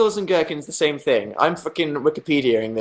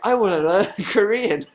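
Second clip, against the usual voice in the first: laughing eagerness; 8 semitones higher than usual. Retold or imitated. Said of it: "and I'm like".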